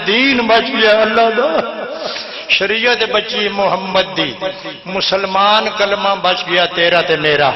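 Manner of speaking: chanted majlis verse; poetry recital. Acted. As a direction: recite the rubai to the gathering. Repeats the couplet.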